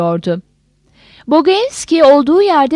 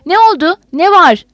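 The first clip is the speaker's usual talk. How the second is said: higher, alarmed narrated exclamation; mild cry out; 6 semitones higher, 3 dB louder than usual. A narrator's reading. Yanov to the aide at bad news, alarmed mild cry. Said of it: "diye haykırdı".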